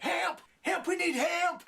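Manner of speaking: high, loud hammed-up cries of help; frantic mock yell. Negan bringing in the injured girl, yelling. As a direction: shout for help like a melodrama. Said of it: "he's like".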